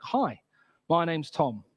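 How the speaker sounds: a hint of a friendly newcomer; boy introducing himself. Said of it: "this boy ... comes up to me".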